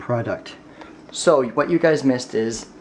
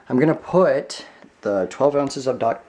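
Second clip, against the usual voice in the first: put-on Brooklyn accent; 2 semitones higher, slower than usual. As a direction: lean into a jokey Brooklyn accent. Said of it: "It's like my Brooklyn accent coming out".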